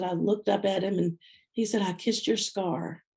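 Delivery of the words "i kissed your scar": soft, slow, tender quote; a lightly voiced tender husband; tender hush. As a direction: say it gently, almost softly. Husband's tender confession retold.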